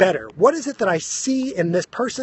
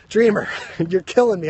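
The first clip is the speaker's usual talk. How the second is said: laughing through the words; real laughter. Real, not acted. Host laughing at Dreamer's comment, real laughter. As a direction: crack up mid-sentence.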